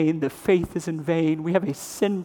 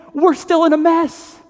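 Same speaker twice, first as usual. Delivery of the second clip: raised, high and loud; preaching climax; 10 semitones higher, 6 dB louder than usual. Real, not acted. Preacher warning the congregation, loud and high. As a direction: drive it home to the room.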